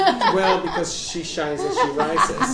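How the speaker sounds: chuckling pun; laughing save. Real, not acted. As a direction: laugh through the quick recovery. Saving a slip with a joke.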